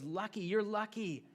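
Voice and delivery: lightly voiced Jesus, high and slow; Jesus' gentle voice. Jesus telling the grieving they are lucky, high and slow. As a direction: say it slowly like a kind teacher. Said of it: "he goes".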